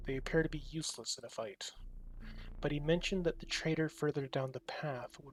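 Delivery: steady read-aloud narrator voice; story narration. A narrator's reading. Streamer reading the game's text to chat, narrator style. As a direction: narrate the scene for viewers.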